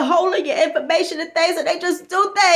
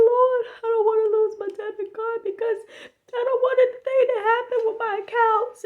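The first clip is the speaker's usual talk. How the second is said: tearful prayer; 4 semitones higher, 5 dB quieter than usual. Retold or imitated. Friend prays tearfully.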